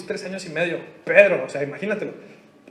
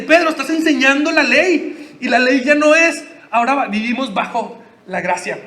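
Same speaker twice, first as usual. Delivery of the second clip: loud, slow rebuke that settles; mock rebuke; 3 semitones higher, 5 dB louder than usual. Paul confronting Peter over the law, firm rebuke. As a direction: lay it down firmly, half-acted. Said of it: "lo confronta y le dice".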